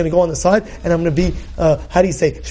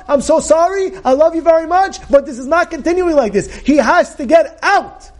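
firm but loving; 8 semitones higher than usual. Retold or imitated. Sarai firmly addresses Abraham.

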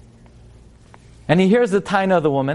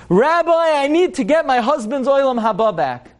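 a higher, hammed-up plea to the rabbi; mock screaming; 8 semitones higher than usual. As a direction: cry out to the Rabbi in mild mock distress. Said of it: "The lady's screaming".

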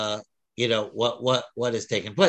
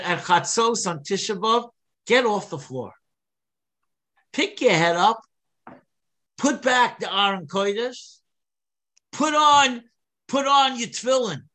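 rousing call; 8 semitones higher than usual. Retold or imitated. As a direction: call them to get up from mourning, building to a peak. Preacher voices Akiva's rousing call.

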